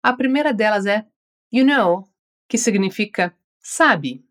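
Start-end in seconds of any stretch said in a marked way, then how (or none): 1.5-2.1 you know left open at the end, sounding unfinished. Shown as a demonstration. Teacher showing you know with an open, unfinished ending. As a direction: leave you know hanging as if more is coming. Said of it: "deixei o final da expressão em aberto".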